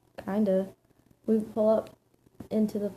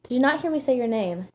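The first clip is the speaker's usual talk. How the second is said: mildly aggravated, slightly raised voice; higher-pitched, irritated challenge; 4 semitones higher, 4 dB louder than usual. Acted. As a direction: demand it with some irritation. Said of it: "His voice changed to aggravated".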